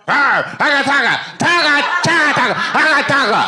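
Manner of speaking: mock indigenous gibberish. Casting a local in a thong, loud gibberish.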